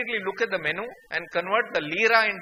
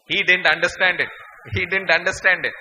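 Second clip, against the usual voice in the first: comic emphatic repeat; 8 dB louder than usual. Acted.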